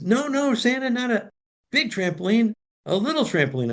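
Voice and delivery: put-on high child's voice, falling at the end; little boy insisting. Boy corrects Santa about the trampoline size, high insistent child voice.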